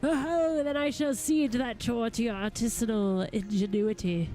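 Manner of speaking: lightly voiced courtly gentleman, eloquent and eager; a hint of a grand lord addressing helpers; formal gentleman goldsmith. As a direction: read it as a formal, well-spoken master craftsman. Reads a game figure's dialogue.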